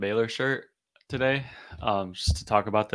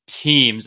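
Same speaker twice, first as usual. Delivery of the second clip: "teams" set apart by a pause, landed louder; stress on TEAMS; 6 dB louder than usual. Real, not acted. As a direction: hit "teams" hard as its own beat. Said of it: "emphasis on the word team".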